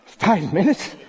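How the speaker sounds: high, rising incredulous question; mock disbelief. Bored believer discovering how little prayer time passed, dismayed. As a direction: squeak it as if the clock is lying. Acts out checking the clock.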